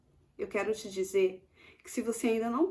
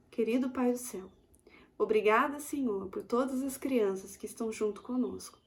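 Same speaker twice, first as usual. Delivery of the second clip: prayer. Acted. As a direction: pray gently with the children. Prayer with children. (oração suave e sincera)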